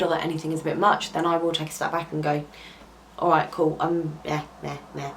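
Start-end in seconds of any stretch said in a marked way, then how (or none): 3.2-5.1 mock brush-off. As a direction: pretend to shrug it off, half-hearted. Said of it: "but nicer".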